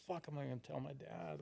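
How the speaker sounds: softly freaking out; worried whisper. Retold or imitated. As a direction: mutter it to yourself in a soft panic. Retold inner worry.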